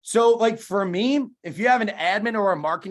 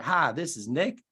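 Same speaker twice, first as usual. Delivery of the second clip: slowed-down, lower Southern drawl; slow it down like a Southern cold caller; put-on Southern phone greeting, slow and low; Southern accent; 4 semitones lower, 3 dB quieter, slower than usual. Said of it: "I used to call in a Southern accent".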